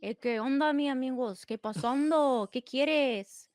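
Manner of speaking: drawn-out Hispanic accent greeting. Shown as a demonstration. Greeting amigos on request, Hispanic accent. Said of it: "Can you do a Hispanic one?".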